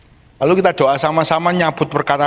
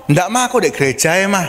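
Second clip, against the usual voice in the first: put-on quick, higher child pleading to stay; a kid begging, rushed; child's voice; 5 semitones higher, faster than usual. Child refuses to go home. (suara anak memohon, cepat)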